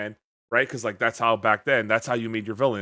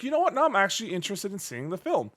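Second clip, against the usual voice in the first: surprised; 6 semitones higher, faster than usual. Retold or imitated. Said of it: "I'm like".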